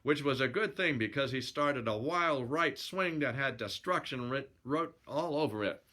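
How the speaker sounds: lively yarn-spinning narration; storyteller reading aloud; story narration. A narrator's reading. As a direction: read it as a colloquial sailor's yarn.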